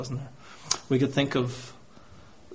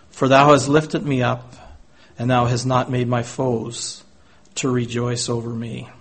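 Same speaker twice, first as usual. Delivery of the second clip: loud, ringing reading of scripture; proclaimed verse; 6 dB louder than usual. Acted. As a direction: lift it out over the room. Preacher proclaims verse from psalm.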